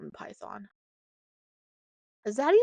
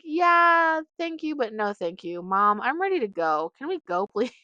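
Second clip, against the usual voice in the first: polite puppy; 2 semitones higher, 6 dB louder than usual. Retold or imitated. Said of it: "He was like".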